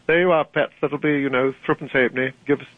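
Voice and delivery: lightly voiced Newcastle shop assistant; Newcastle shopkeeper. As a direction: mimic a Newcastle shopkeeper naming a price. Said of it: "you go to a shop".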